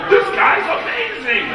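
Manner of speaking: high, slow mock amazement; awed admirer. Gangsters impressed by his stolen movie lines, acted amazement.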